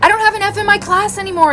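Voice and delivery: high-pitched proud announcement; excited daughter. Retold or imitated. Daughter telling mom about her grade, excited. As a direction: imitate a kid proudly sharing great news. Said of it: "she is so excited".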